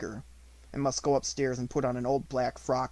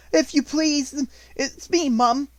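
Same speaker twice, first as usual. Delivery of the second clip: much higher, louder frightened maid voice; a scared scullery girl owning up; timid maid; 13 semitones higher, 7 dB louder, slower than usual. A narrator's reading. Maid explaining to the headmistress, high and timid. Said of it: "she explained".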